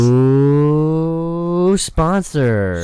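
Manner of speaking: slow, booming trailer announcer; movie trailer voice. Pretend. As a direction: drag it out like an epic movie trailer. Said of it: "Don't do it in your movie trailer voice".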